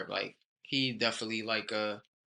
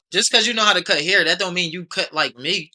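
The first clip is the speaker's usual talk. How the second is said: laughing; 7 semitones higher, 10 dB louder than usual. Real, not acted. Laughing retort in banter.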